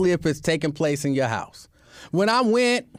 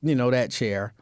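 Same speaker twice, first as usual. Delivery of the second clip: slowed, measured imitation of salon staff; careful, accent-avoiding quote. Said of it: "breathe and not do the accent".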